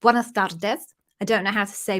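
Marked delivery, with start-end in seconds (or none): 0.0-0.9 greeting in a Spanish accent; put-on Spanish pronunciation. Shown as a demonstration. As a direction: switch into a Spanish accent, lifting at the end. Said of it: "a Spanish accent".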